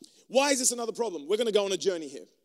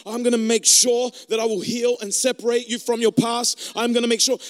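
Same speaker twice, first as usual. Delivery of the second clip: building promises; 6 dB louder than usual. Pretend. God voiced, rising promises.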